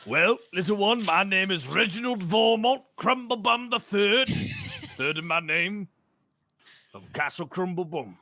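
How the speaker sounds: put-on a noble introducing himself to a little girl; grand noble. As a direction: announce your titles like a vain lord. Player voices pompous Reginald.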